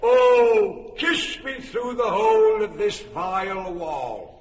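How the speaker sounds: a loud, overblown plea; hammy cry. Acted. Pyramus loudly begs Thisbe for a kiss through the wall. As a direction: bellow the kiss line like a ham actor.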